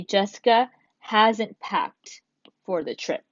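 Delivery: slow, careful reading of "Jessica hasn't packed"; teacher's slow model sentence; slow dictation. Shown as a demonstration. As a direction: read it out slowly for students to copy. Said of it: "So you can choose".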